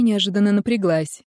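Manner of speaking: ordinary delivery, nothing marked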